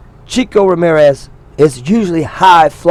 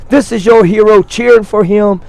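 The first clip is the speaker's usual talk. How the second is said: mock wrestler yell; 5 semitones higher than usual. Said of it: "is what he just told this lady".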